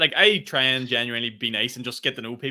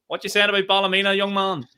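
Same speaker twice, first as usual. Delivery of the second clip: indignant granny; 7 semitones higher, 5 dB louder than usual. Retold or imitated. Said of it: "the grannies would just go".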